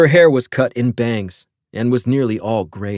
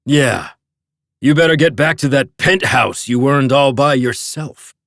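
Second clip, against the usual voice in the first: snapping; 4 semitones higher, 4 dB louder than usual. A narrator's reading. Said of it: "Barton snapped".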